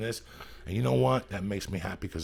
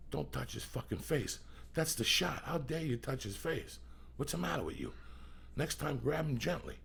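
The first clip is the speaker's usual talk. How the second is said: higher, softer mock telling-off; retold scolding; 6 semitones higher, 6 dB quieter than usual. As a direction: imitate an indignant director reprimanding an actor. Retold director scolding actor.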